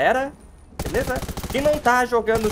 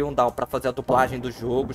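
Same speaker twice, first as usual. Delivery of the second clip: ordinary talk, nothing marked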